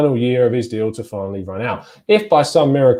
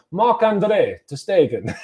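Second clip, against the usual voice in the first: a slower, corrected "Marc-Andre ter Stegen" with German sounds; German pronunciation; 6 semitones higher, slower than usual. Shown as a demonstration. Fan correcting himself, says the German keeper's name German-style. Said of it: "as a solid German".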